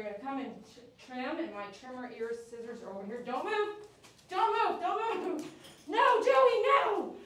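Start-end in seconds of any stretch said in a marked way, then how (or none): 3.3-5.5 don't move, raised and firm; sharp command. Real, not acted. Groomer ordering a snapping dog to freeze, firm and loud. 5.9-7.1 high, loud sharp no; shouted no. Real, not acted. Groomer shouting at a lunging dog, high and loud.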